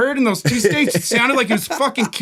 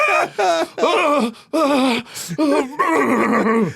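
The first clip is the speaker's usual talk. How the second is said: short strained cries, slightly higher; mock screams; 6 semitones higher, much slower than usual. Retelling the man in the bathroom, mock pained cries. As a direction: imitate a man yelling in pain. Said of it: "kinda screaming a little bit".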